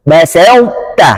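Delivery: basauta slow, emphatic ta kept; correct basauta. Shown as a demonstration. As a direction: say basauta carefully with a heavy ta. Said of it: "harus dibaca".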